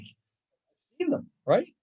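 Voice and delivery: put-on high, slow, childlike insistence; high-pitched drawn-out mock child; naive know-it-all. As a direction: play the kid who's sure it's a chicken. Naive learner voiced, child-like claim.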